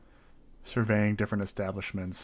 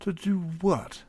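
courteous, slightly higher character voice; polite adventurer; 5 semitones higher, 7 dB louder than usual. Acted. Adventurer asking his eagle to scout the town, polite and fussy. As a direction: ask the bird politely, a little fussy.

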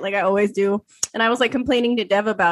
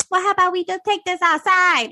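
mock tough guy; 8 semitones higher than usual. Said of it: "And he's like".

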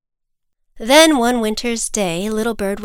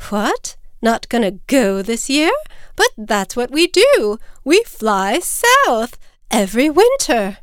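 rising disbelief, growing higher and louder; dismayed mother; 4 semitones higher, 4 dB louder than usual. Acted. Mother bird hears chick won't fly south, incredulous. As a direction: protest in emphatic astonishment.

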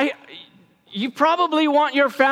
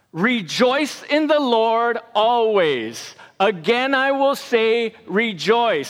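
slow recitation; 2 semitones lower than usual. Shown as a demonstration. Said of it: "it goes like this".

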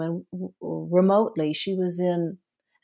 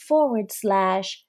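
slow spelling; slower than usual. Real, not acted. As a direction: spell each letter out slowly. Spelling out a web address.

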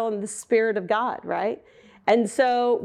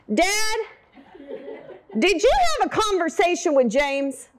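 curious daughter; 7 semitones higher than usual. Retold or imitated. Daughter asks dad excitedly.

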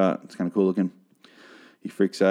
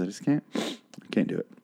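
mock crying; 7 dB quieter than usual. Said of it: "Excuse me, I'm really sad".

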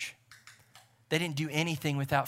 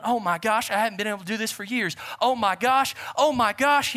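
high excited yell, growing louder; retold joyful shouting; 6 semitones higher, 6 dB louder than usual. Preacher voicing the healed veteran jumping around, excited mock shouting. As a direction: build the acted jubilation to a high cry. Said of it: "shouting and yelling".

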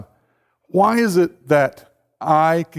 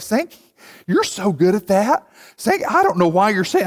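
imitating his mom. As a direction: coo his name like a doting mother. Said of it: "Here's my mom in small group".

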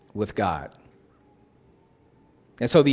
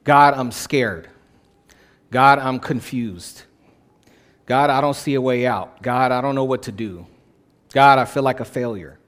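heartfelt lament. Shown as a demonstration. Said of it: "powerful about saying".

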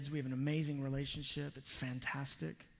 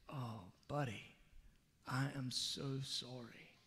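soft apology; 7 dB quieter than usual. Retold or imitated. Father apologizing to hurt son.

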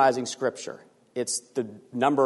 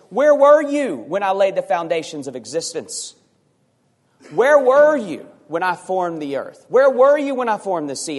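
loud, raised, demanding questions; God's challenge; 4 semitones higher, 4 dB louder than usual. Acted. God questions Job from the whirlwind, loud and demanding. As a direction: hurl each question from on high. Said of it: "And then God says".

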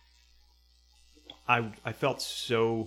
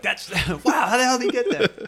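mock amazement; 14 dB louder than usual. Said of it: "Watch him be like".

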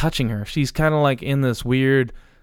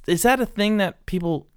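usual speaking voice

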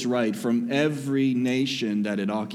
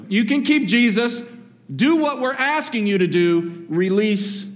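much higher and louder insistence; crowd demanding; 8 semitones higher, 3 dB louder than usual. Acted. The crowd pushing Pilate to release Barabbas, higher and louder. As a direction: demand it from the governor.

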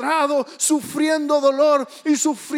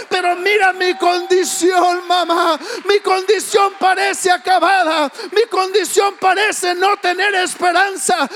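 louder, higher desperate pleading; a sick boy begging his mother, higher and louder; pleading cry; 3 semitones higher, 4 dB louder than usual. Retold or imitated. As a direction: beg your mother, voice straining up. Boy begs mother from hospital bed.

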